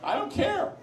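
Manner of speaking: high, laughing, dismissive throwaway; laughing impression of an indifferent president; mock Putin shrug. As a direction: toss it off like a bored strongman, way up high. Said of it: "he said".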